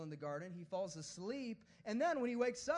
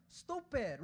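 higher comic telling-off; mock scolding; 4 semitones higher, 4 dB louder than usual. Preacher as Jesus rebuking Peter, mock scolding. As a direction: scold him in exasperation.

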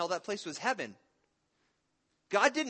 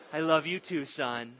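laughing; 5 dB louder than usual. Real, not acted. Father answers son, amused.

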